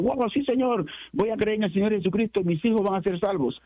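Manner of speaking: high, eager mock cheer; imitating excited believers. Preacher mimicking believers who jump and shout, eager mock cheer. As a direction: send up the crowd jumping and shouting. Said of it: "saltan y gritan y dicen".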